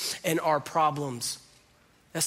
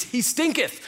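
a much higher, hammed-up old-English read; mock King James; 10 semitones higher, 3 dB louder than usual. Preacher quoting the King James Bible in a hammed-up high voice. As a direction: play up the archaic wording for laughs. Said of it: "The King James Version reads".

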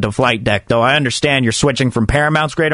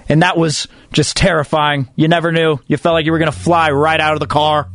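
mock slam poetry. Radio host reciting an ode to Great America, mock slam poetry. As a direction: perform a tongue-in-cheek nostalgic ode, line by line.

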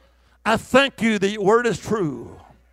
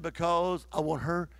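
God's voice whispered; 5 semitones lower, 10 dB quieter than usual. Retold or imitated. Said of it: "He said".

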